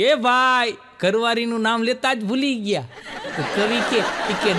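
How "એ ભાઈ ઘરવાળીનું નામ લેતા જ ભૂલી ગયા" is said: heckler's shout. Retold or imitated. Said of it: "રાડ પાડી".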